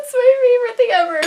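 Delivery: high, loud and fast, bubbling over; gushing excitement. Real, not acted. Vlogger gushing to viewers about her favorite thing, high and fast. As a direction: rush it out, thrilled.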